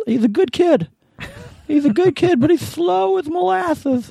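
high-pitched lisping impression. Recalling the owner talking to the manager about Jay, imitating a high, lisping voice. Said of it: "he had a high voice and he spoke with a lisp".

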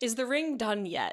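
lofty, grandly pompous, self-important put-on tone. Retelling how a character asks in every jewelry store: imitating a pompous voice. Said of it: "his very pompous impression".

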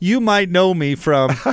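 fake corny commercial announcer voice. Imitating a caller who introduced himself like Troy McClure. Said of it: "like Troy McClure from The Simpsons".

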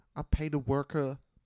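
quiet mock lisp. Asked to read a line in Mike Tyson's voice, attempting a Mike Tyson lisp impression. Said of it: "how do you do a lisp?".

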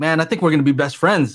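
normal talking voice

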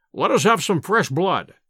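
ordinary talk

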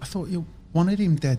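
sheepish, embarrassed tone. Mikey speaks from the corner to the angry speaker, sheepish. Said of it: "said Mikey sheepishly".

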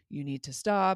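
ordinary delivery

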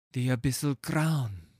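breathy, reverent, breathed-out delivery. Narrator reads a character's words as he gazes at a crown, breathed. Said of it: "he breathes".

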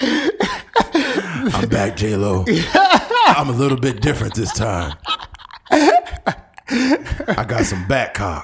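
put-on caped-hero voice, swooping pitch. Mid-joke, the speaker slips into a Batman voice. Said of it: "In his Batman voice?".

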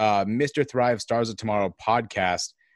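ordinary delivery

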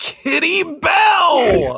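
high, loud, drawn-out delighted shout.

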